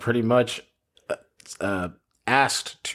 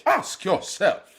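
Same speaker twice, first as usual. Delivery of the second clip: Shakespearean British, high and slow; British accent; 11 semitones higher, slower than usual. Retold or imitated. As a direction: play it like a stage Shakespearean actor. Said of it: "start doing Shakespeare".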